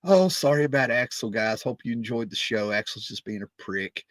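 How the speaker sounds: put-on lightly effeminate, English-accented apology; a rock guitarist with English accent. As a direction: imitate an apologetic English rocker. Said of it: "a little bit of a English accent".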